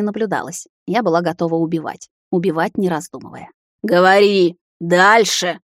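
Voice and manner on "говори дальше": loud, snarling command; growled order. A narrator's reading. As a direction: growl it at the maid. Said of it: "рыкнула на неё".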